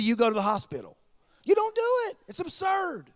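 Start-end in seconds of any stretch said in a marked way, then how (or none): 1.4-3.0 emphatic preaching. Real, not acted. Preacher stresses absurd point.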